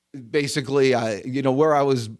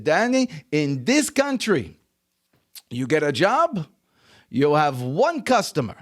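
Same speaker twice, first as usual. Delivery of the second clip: put-on phrase-by-phrase lesson in a light French Jewish accent. Immigrant father teaches son about bosses, light French Jewish accent. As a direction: pause between points, slight French Jewish accent. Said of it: "in his little French Jewish accent".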